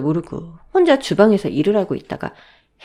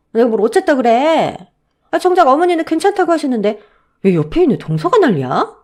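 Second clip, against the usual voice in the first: loud, defensive sister-in-law; acted quarrel, loud and irritated; indignant retort; 6 semitones higher, 6 dB louder than usual. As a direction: push back, raised voice and affronted. Elder sister-in-law snaps back in quarrel.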